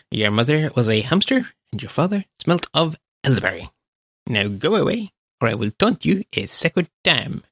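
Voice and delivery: mock taunting French knight accent; bad French accent. Quoting the Monty Python French taunting scene, bad French accent. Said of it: "a bad imitation of a bad French accent".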